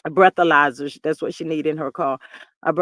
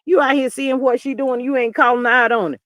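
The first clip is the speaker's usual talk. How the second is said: higher-pitched indignant dressing-down; mock reproach, pitched up; retold scolding; 5 semitones higher than usual. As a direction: imitate someone telling a friend off. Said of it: "she ripped a hole in that dude".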